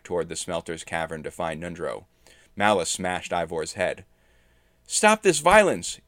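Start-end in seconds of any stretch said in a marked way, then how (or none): 4.9-6.0 high, loud, drawn-out cry; commanding high-pitched outcry; yelled plea. A narrator's reading. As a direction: yell out slowly to stop the fight. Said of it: "Edith yelled".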